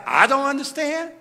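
understated voice of God answering. Retold or imitated. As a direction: lightly voice God speaking back. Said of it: "And God said".

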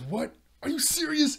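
high, loud, mock-furious; hammed-up outrage; mock outraged yell. Oric learns Odd threw the fish, a mock-furious high yell.

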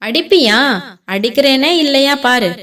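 loud, daring challenge; defiant shout. Acted. Son shouts back at his mother, daring and loud. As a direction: shout back a dare at her.

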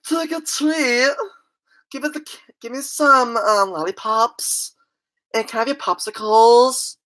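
a hint of a camp voice; camp trick-or-treaters. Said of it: "Two gay guys come out".

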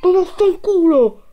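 high shouted curse; explosive italian cursing. Real, not acted. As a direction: bellow the curse, still shaken. Jump scare aftermath. (imprecazione urlata ad alta voce)

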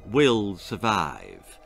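grim doctor. Acted. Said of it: "said the doctor grimly".

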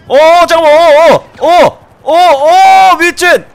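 high, loud startled cries; alarmed shouting. Real, not acted. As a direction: react to a sudden shock. Sudden crash alarm.

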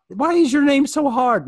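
high, loud, drawn-out wail; comic pleading shout, stretched out; mock exasperation. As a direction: playfully yell it in exasperation. Mock exasperation at a hard name.

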